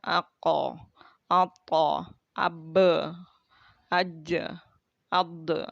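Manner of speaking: final consonant of ako, ato, abe, aja, ade released with a small echo; bouncing qalqalah. Shown as a demonstration. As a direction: let each stop bounce off. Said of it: "Itu namanya qalqalah terpantul".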